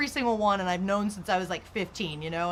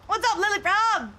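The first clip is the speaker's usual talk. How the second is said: high, louder sing-song greeting; cutesy pet greeting; 12 semitones higher, 5 dB louder than usual. Real, not acted. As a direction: greet her like a tiny pet.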